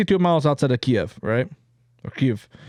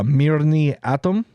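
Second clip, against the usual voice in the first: put-on Russian accent; slower than usual. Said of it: "excuse my, my Russian accent here".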